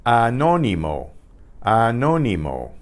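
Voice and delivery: teacher's careful Anónimo, falling at the end; Spanish pronunciation demo. Shown as a demonstration. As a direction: model Anónimo in Spanish, stressed on the NO. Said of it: "Here's a word for you".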